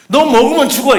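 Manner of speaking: preacher voicing God's warning to Eve; stern warning. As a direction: lay down the law firmly. God warns Eve.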